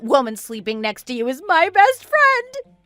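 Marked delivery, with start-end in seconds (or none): 1.5-2.8 indignation rising to a high yell; angry shouting. Acted. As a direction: build to an outraged cry. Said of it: "another person shouting in here".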